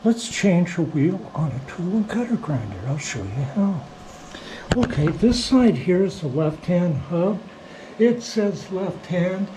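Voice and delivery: weak, hoarse voice from smoke. Real, not acted. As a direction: talk through a hoarse, worn throat. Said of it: "excuse my, uh, weak voice".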